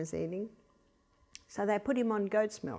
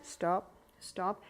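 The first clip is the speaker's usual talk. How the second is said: soft firm stop; 2 semitones lower, 7 dB quieter than usual. Shown as a demonstration. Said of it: "put them back down".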